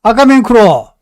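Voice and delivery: loud, high Gyeongsang dialect command; Gyeongsang dialect order. Acted. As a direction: call it out like the platoon leader. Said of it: "소대장이 다시 한번 이야기했습니다".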